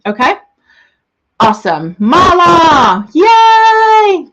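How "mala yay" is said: high, loud squeal of joy; squealing welcome to a new member; excited cheer. Real, not acted. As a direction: cheer her arrival like a fan. Greeting fans in live chat.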